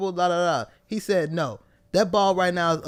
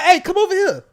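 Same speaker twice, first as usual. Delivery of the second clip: cop voice; 11 semitones higher, 5 dB louder than usual. Pretend. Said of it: "They gonna be like".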